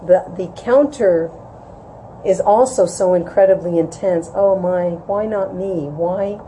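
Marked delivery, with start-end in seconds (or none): 4.4-6.4 envious sadness. Retold or imitated. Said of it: "The counter feeling of that sadness".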